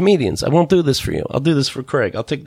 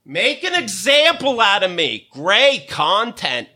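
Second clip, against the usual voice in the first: higher, then drawn-out slow Great content; mocking reread; 5 semitones higher, slower than usual. Rereading the friend's text to the audience, mocking. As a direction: sneer his words back at him. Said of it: "repeated text read back".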